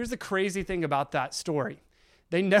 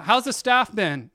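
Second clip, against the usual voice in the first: higher, louder and slow, forced cheer; a doctor pushing cheer at a bored patient, slow; bright coaxing doctor; 5 semitones higher, 7 dB louder than usual. Retold or imitated. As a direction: keep the chirpy bedside tone going.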